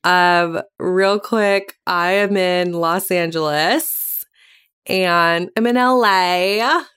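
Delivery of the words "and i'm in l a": put-on Valley Girl voice. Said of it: "the Valley Girl voice when I'm here".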